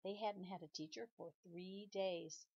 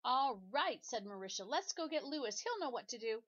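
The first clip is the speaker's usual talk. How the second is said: eager; 4 semitones higher, 5 dB louder than usual. Acted. Marisha rallies freed classmates.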